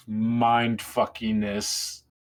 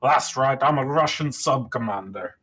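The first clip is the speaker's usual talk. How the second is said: Sean Connery impression. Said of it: "a bit about Sean Connery".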